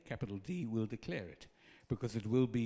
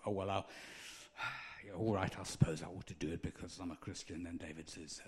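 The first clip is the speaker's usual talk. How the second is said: sighing, grudging mumble, faster; grudging reluctance; 4 semitones lower, 5 dB quieter, faster than usual. Retold or imitated. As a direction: play it like a reluctant chore. Mock reluctant servant quote.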